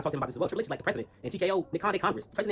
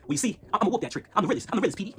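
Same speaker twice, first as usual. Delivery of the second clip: mock aggressive promo voice; 5 semitones higher than usual. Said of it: "you sound like a Mississippi pimp".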